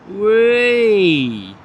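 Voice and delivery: a long, sung-out whee of joy at the takeoff; gleeful whee. Real, not acted. Spotter cheering a long takeoff roll, gleeful whee.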